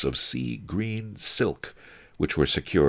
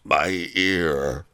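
pained, pitiful little complaint; whimpering. A narrator's reading. Bandaged servant complains about his head, whimpering. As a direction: whimper it like a hurt thug. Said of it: "he kept whimpering".

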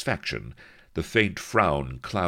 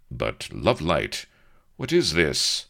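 astonished; 2 semitones higher, 5 dB louder than usual. Acted. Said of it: "Avery was astonished".

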